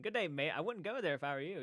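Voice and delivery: lightly imitated Australian accent; casual, half-hearted Aussie accent. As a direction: try a mild Australian accent. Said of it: "an Aussie accent".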